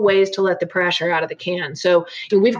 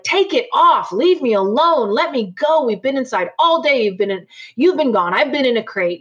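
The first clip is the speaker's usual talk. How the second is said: higher pitched, whiny plea of a fed-up dog; voicing an annoyed dog; 4 semitones higher than usual. Trainer voicing a frustrated leashed dog, higher and whiny. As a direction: speak for the dog, complaining to be let go. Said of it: "annoyed, like".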